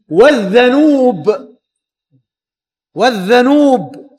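"والذنوب" with a on the ذ and u on the ن; careful teacher's reading of "والذنوب", dhanuub; vowelled as specified. Shown as a demonstration. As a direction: say "والذنوب" as wadh-dha-nuub, long final vowel. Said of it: "بفتح الذال وضم النون".

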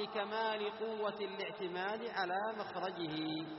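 slow chanted reading; measured text recitation. Acted. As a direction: draw out the last word as you read.

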